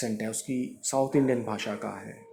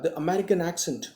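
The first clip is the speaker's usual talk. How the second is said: slow, deliberate reading; slow dictation; 4 semitones higher, much slower than usual. Shown as a demonstration. Teacher reading the phrase slowly to the class. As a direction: stretch the phrase out for learners. Teacher reads English text aloud.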